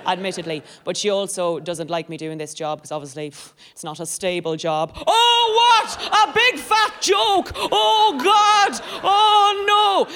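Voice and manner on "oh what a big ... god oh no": loud, high hammed-up shock at the pun; mock outrage. Comedian faking outrage at her own pun, loud and high. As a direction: feign being scandalised by the joke.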